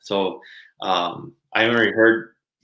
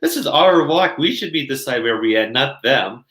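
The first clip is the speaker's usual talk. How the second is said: bitter complaint; 4 semitones higher than usual. Retold or imitated. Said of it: "So I was like".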